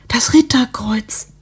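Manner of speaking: "Das Ritterkreuz" whispered slowly, with a falling, reverent tone; hushed, slow "Das Ritterkreuz" in awe; awed whisper. Acted. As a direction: breathe the word "Ritterkreuz" as if it were sacred. Neighbour repeats in awe.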